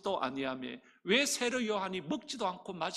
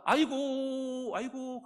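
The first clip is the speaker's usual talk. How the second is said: child's mock wail; 4 semitones higher, much slower than usual. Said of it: "아이가".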